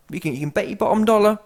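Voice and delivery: ordinary delivery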